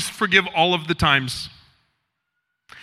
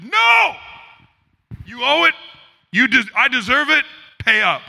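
angry refusal; 3 semitones higher than usual. Acted. Servant refuses debtor, acted story.

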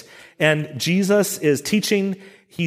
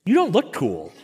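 deflated self-talk; 3 semitones higher than usual. Retold or imitated. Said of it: "and I think".

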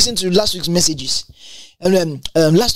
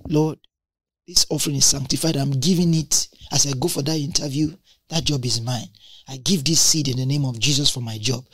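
quiet prayer; 7 semitones lower, 6 dB quieter than usual. Retold or imitated. Voiced prayer over a seed offering.

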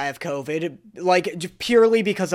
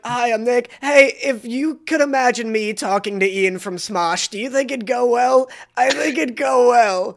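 higher, over-friendly mock introduction; imitating her friend; 5 semitones higher than usual. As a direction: tease him with an eager pitch. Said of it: "you go up to people and you're like".

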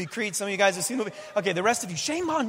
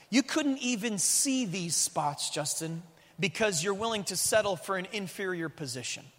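softer, slow, gentle voice of God; quiet inner voice; 6 dB quieter, slower than usual. Retold or imitated. God speaking quietly to the pastor, soft and slow. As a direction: say it quietly, like a voice inside. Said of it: "said really quietly in my inner man".

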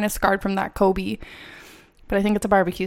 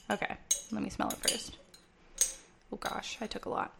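whispering; 13 dB quieter than usual. Real, not acted. Quiet aside while smelling.

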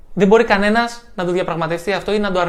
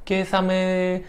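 anxious self-talk; 3 dB quieter than usual. Retold or imitated. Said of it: "Μην αρχίσετε".

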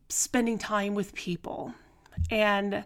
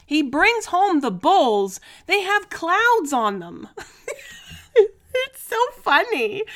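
laughing; 9 semitones higher, 6 dB louder, slower than usual. Real, not acted. Laughing telling about the bowls.

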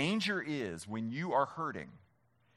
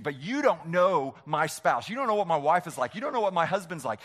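louder objecting congregant, quickening; mock protest; 5 dB louder than usual. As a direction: voice the listener's defensive excuse. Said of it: "And you think".

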